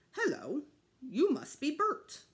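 child imitating a puppet to his brother; Sesame Street voice. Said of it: "in his best Sesame Street voice".

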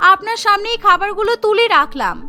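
innocent-acting bride. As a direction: play innocent, voice lifted.

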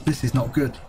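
low-pitched, muted worry; real low-voiced concern. Real, not acted. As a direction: say it low, as a grim note to yourself. Player sees trouble coming.

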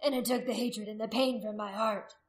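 shouting back. A narrator's reading. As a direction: testify loudly to the crowd. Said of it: "Haragast shouted back".

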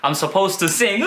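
slow, deliberate drill phrases; rapid-fire drill. Shown as a demonstration. Teacher models the pattern drill for students, slow and deliberate. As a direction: rattle off each phrase without thinking. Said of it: "어떻게? 이렇게".

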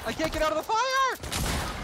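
high desperate yell, slow; yelling while trapped in fire; raging gamer. Real, not acted.

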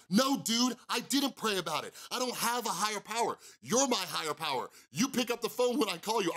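retelling his furious reply to the sponsor; livid rant. Retold or imitated. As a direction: snap back at him, fed up. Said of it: "And I would get livid".

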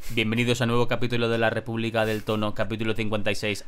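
flat robotic show intro, low and level; robótico. Shown as a demonstration. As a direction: read the welcome without any dynamics. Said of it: "serías un poco robótico". (presentación plana y robótica)

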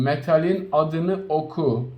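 slow, deliberate instruction; repeated slowly. Shown as a demonstration. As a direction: slowly drive the rule home. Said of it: "Bir daha söylüyorum". (tekrar ederek, yavaş ve vurgulu)

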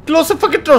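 loud high yell. Real, not acted. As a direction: yell it at the door. Player yells at the game.

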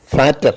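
"fatter" with f, long ah and t; German pronunciation. Shown as a demonstration. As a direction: demonstrate "fatter" as German Vater. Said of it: "pronounced as". ("fatter" German ഉച്ചാരണത്തിൽ)

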